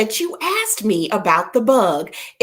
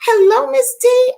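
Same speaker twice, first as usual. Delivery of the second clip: much higher and louder hello to a viewer; excited greeting; 7 dB louder than usual. Real, not acted. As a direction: call out her name with delight.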